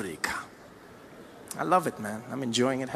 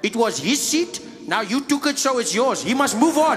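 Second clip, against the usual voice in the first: Afrikaans guy. Acted. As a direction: reason it out like an Afrikaner, building to a firm finish. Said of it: "the Afrikaans guy probably said".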